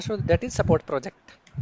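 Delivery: spelling a term out slowly for students; slow dictation. Shown as a demonstration. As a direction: say each word slowly, as if dictating.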